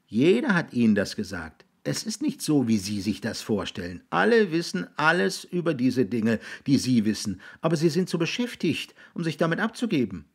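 put-on high, insistent boy's voice; explaining boy. Jiggs telling William nobody has time, insistent.

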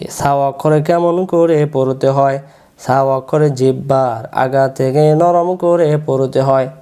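slow, measured rule recital with stretched syllables; memorisation recitation. Shown as a demonstration. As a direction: recite it slowly so pupils can memorise it. (ধীরে টেনে টেনে মুখস্থ পড়ানো)

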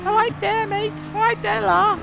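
very high, loud Scouse accent. Shown as a demonstration. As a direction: squeak out a comic Scouse greeting. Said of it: "Oh, maybe, maybe Scouse".

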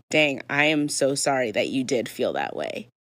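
mean the apology, stressing SO SORRY; sincere apology. Shown as a demonstration. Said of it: "you might sincerely be meaning".

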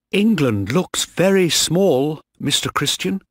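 put-on high, excited young officer; happy, excited. A narrator's reading. Young officer to Mister Christian as they sail, happy and excited. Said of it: "he was happy and excited".

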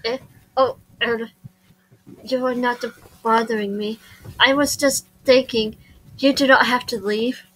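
reserved polite Japanese student. Acted. Shy student telling visitor to stay, reserved and hesitant.

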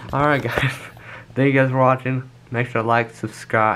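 talking around a retainer; slurred words with a retainer in; wearing a retainer. Real, not acted. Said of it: "I cannot talk with this retainer in my mouth".

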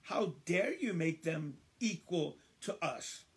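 slow, emphatic challenge to the master; acted outrage, leaning on each phrase; indignant protest. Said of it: "it's as though they're telling the father".

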